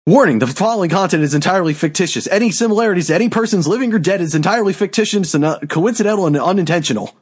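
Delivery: fast-talking legal fine-print read; rapid disclaimer. Acted. Host giving a disclaimer before the question, rapid-fire read. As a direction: rattle it off like a mandatory warning.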